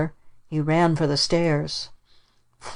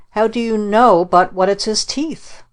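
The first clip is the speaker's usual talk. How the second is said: put-on child's cry; 5 semitones higher than usual. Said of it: "he cried".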